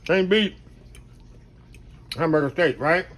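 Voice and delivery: talking with a mouthful of food; mouth full. Real, not acted. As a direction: say it through a bite. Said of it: "I need to talk with my mouth full".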